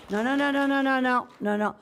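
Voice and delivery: high, loud repeated no; loud insistent no. Real, not acted. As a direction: call out to stop the room. Chair stopping applause from crowd.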